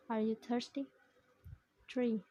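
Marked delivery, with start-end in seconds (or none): 0.1-0.9 THIRSTY lifted into a question; yes-no question going up on THIRSTY; rising intonation. Shown as a demonstration. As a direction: end THIRSTY on a rising pitch. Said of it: "Rising intonation is common in yes-no questions".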